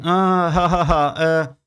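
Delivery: slow taunting voice with a scoffing laugh; mocking neighbor. Neighbor taunting him about her smoking child, mocking and slow.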